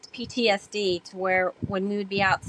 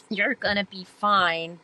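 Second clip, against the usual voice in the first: reassuring mentor; slower than usual. Retold or imitated. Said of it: "looked at me and said".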